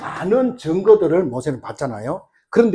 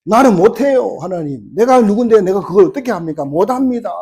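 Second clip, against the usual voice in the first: startled protest; 2 semitones higher, 4 dB louder than usual. Acted. Moses refusing God's call, startled protest. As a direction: lightly play a startled man begging off. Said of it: "모세가 놀래가지고".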